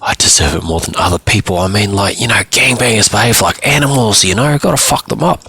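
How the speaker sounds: put-on a boy insisting he's in the right, pitch climbing; defiant teenage client. Boy justifies himself to his counsellor, defiant.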